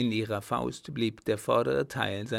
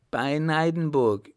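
higher, louder cry of joy; jubilant; 4 semitones higher, 6 dB louder than usual. Acted. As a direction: shout it out in triumph. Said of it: "jubelte das Mädchen".

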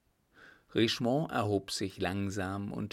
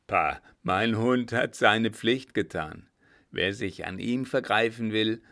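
proud warning. Acted. Coachman boasts, warns soldiers.

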